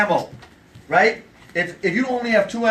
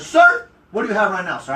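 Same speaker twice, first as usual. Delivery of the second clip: louder, matching a big guy; firm and louder; 5 dB louder than usual. Shown as a demonstration. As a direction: push back with equal force. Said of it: "you're gonna scream with him".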